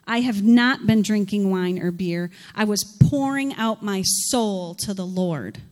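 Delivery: loud, earnest pleading; anguished plea. Acted. Hannah pleads loudly with Eli, anguished and troubled. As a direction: cry out your innocence to the priest.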